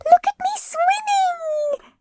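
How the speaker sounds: very high, slow, proud little squeak; squeaky Roo. A narrator's reading. Roo showing off from the middle of his pool, squeaky. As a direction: squeak it like a tiny proud joey. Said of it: "squeaked Roo".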